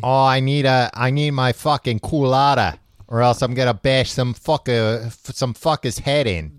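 put-on hammy Boston accent, rough tough guy. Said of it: "bad Boston accent".

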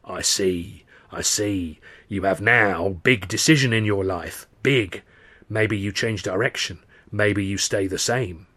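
lightly voiced swaying seer, slow at the end; a hint of a mystic chant; fortune teller in trance. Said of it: "rocking back and forth, going".

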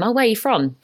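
mock suggestive question, lifted in pitch. People questioning a London-born friend, mock suggestive. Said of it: "in a sort of suggestive way".

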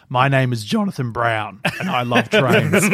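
slow, breaking into laughter; can barely get the words out for laughing; laughing through a quote. Retold or imitated. Fan quoting the kid on the train, laughing.

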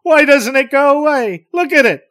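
shrill, loud and desperate; panicked outburst at the hovering craft; intensely emotional. Acted. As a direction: cry out in frantic fear. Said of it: "Barney, intensely emotional".

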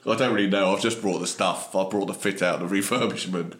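put-on light Cockney accent; mild working-class Cockney accent. Delivery man introducing his firm, light Cockney accent. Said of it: "In a Cockney accent".

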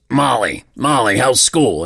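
lightly imitated raspy smoker's voice; a hint of a gravelly smoker asking; smoker's rasp. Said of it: "a friend of ours has a smoker's voice".

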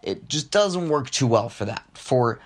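a hint of a morning radio host putting on a goofy voice; silly little voice. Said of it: "Why are you talking like that?".

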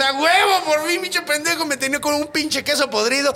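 high, squeaky bird shouting its relief; a cartoon bird finally let loose; freed bird voice. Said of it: "el pájaro dice". (pajarito chillón y aliviado)

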